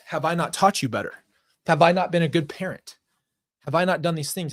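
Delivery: imitating a mother's tearful guilt trip; retold crying reproach. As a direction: plead like a wounded parent, lightly acted.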